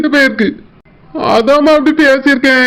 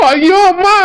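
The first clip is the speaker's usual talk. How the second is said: fake pain; 5 semitones higher than usual. Husband fakes a headache.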